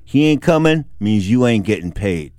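low, slow, deliberate verdict; Harold's blunt delivery. Retold or imitated. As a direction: lay down the bad news slowly and low. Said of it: "just the way Harold put it".

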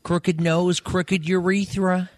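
high, drawn-out laid-back impression; Owen Wilson. Comedian as a celebrity satnav giving directions, high drawled impression. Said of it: "Owen Wilson is such a surreal one".

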